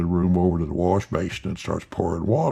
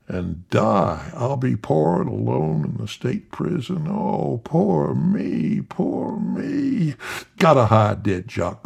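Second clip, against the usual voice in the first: higher, hammed-up self-pitying wail; mock blubber over the body, whining poor me; blubbering old man; 4 semitones higher than usual. Rich blubbering over the body he thinks is Jock. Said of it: "starts blubbering".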